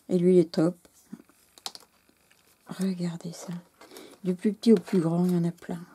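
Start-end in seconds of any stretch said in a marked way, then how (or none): 2.7-3.5 hushed, softer whisper; whispered invitation to look. Real, not acted. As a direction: whisper it to draw them close. Showing tiny details.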